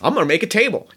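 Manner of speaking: a lightly voiced grumbling goblin; grumbly goblin. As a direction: mutter your regrets like a homesick woodsman. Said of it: "Chops gets real grumbly".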